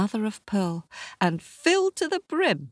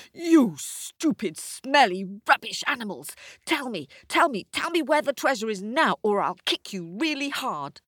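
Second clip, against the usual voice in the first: angry shout; 7 semitones higher than usual. Acted. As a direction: threaten the animals. Charles furious.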